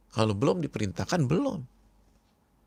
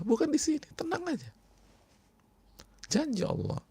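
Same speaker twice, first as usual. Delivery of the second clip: soothing comfort. Acted. Comforting the tortured family.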